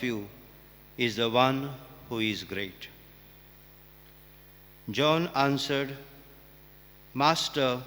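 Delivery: measured, proclaiming church reading voice; formal Gospel reading. Acted. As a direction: read it out solemnly to the congregation.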